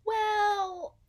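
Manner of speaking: high, loud "well"; loud interjection. A narrator's reading. Narrator correcting the story with a loud high well. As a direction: catch yourself mid-story, loudly.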